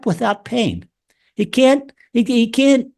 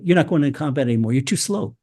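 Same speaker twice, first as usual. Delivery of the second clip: general's blunt verdict; 6 semitones lower, faster than usual. Retold or imitated. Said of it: "Yoav, his general, said".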